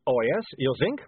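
put-on mildly indignant accented retort; snapped. A narrator's reading. Vampire complains about his collar to a dwarf, snappish. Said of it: "snapped Otto".

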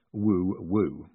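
plainly spoken "woo, woo"; poor owl imitation. A narrator's reading. Moist signalling in the woods, unconvincing owl hoot. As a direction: fake an owl hoot badly. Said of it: "He made a noise like an owl".

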